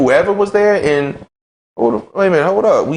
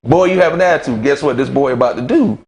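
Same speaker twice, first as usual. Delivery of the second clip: mocking accuser; 2 semitones higher than usual. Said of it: "it's gonna be looked at".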